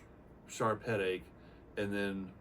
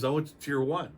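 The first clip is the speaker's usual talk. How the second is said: louder, higher, self-assured announcement; proud friend; 7 semitones higher, 7 dB louder than usual. Retold or imitated. Retired SEAL friend proudly tells Mike his fix, louder. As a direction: say it like the big reveal.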